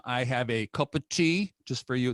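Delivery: an American's poor attempt at British; badly faked British accent, lightly put on. American host offering his British guest tea, bad British accent. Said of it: "That is the worst accent ever".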